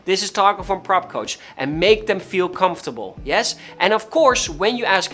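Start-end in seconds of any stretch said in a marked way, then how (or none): 0.0-1.4 slow, friendly greeting; unhurried caller introducing himself; very slowly. Shown as a demonstration. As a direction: ease into the intro. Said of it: "No, very slowly".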